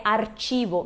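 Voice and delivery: "archivo" with a tch sound, not K; Spanish CH pronunciation. Shown as a demonstration. Teacher corrects the mistaken reading, tch sound in "archivo". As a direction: say "archivo" with CH as in "church". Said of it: "C H em espanhol tem esse som de ch".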